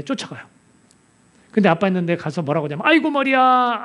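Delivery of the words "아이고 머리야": put-on high, louder wail of a sick child; child's cry of pain. Little boy crying to his father, high and loud about his head.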